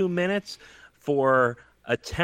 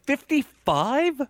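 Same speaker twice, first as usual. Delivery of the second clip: surprised; 11 semitones higher, slower than usual. Real, not acted. Disbelief at the low pick.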